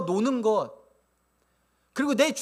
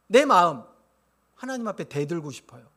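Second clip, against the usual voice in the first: ordinary delivery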